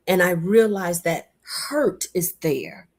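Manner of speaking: slow, unvoiced whisper. Real, not acted. Speaker confiding gently to listeners in a whisper.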